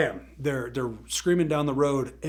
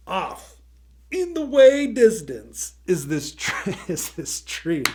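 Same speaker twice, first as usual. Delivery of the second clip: high, loud, slow announcement; high loud drawn-out storyteller suspense; dramatic build; 6 semitones higher, 9 dB louder, slower than usual. A narrator's reading. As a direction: draw it out like a looming threat. Dramatic build toward the tree.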